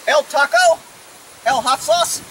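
put-on fake Spanish accent; mock Spanish accent. Retrying the command for the horse, mock Spanish accent. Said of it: "my Spanish accent".

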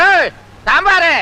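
slow, drawn-out call for sambar. Acted. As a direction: holler for service, stretching the words. Calls out for sambar at feast.

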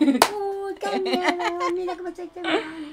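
fast, laughing fake trembling; hammed-up scared voice, racing and giggling; mock fear. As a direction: pretend to be scared while laughing at him. Repeats taunt in mock fear.

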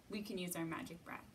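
ordinary delivery

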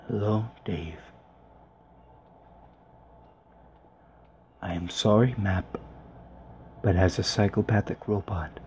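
a light hint of a calm, menacing computer; Hal nine thousand. Gamer playing Hal nine thousand to the map, lightly voiced. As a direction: play a psychopathic robot, barely changed voice. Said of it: "I actually almost sound like Hal nine thousand".

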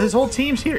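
high, alarmed cry; shocked at the whole team. Real, not acted. Sees whole enemy team.

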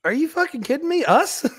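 high, stunned retold disbelief; a re-enacted yelp of disbelief; shocked outburst. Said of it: "And I go".

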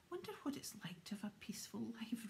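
quick, lightly sighed wish; fed-up longing for some peace, understated; a mild sigh of weariness; weary sigh. Acted. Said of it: "Ron sighed".

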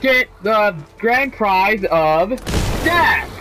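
slow, drawn-out prize reveal; milk the pause, then punch death; booming prize announcer. Acted.

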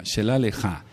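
"Shelah Leja" con acento en cada A final. Shown as a demonstration. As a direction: di "Shelah Leja" cargando "lah" y "ja". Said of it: "con acento en la A en la fonética". ("Shelah Leja", ambas palabras agudas)

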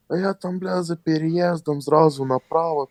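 lightly mocking the drunk's voice; drunk explaining. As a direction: ramble directions like a lost drunk. Drunk guy explaining where he lives.

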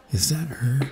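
hushed, surprised whisper. Acted. Student spotting his crush down the hall, whispering. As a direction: breathe it so she won't hear.

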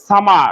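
সামা with a silent final r; British সামা ending on an open vowel; British pronunciation. Shown as a demonstration. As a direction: leave the r off the end of সামা. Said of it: "তারা এই সামার শব্দটাকে বলবে".

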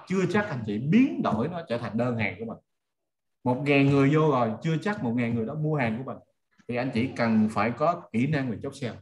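normal talking voice

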